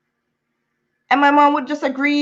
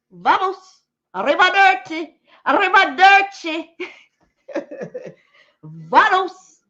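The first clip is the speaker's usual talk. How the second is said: mock farewell; 6 semitones higher, slower than usual. Mocking goodbye repeated.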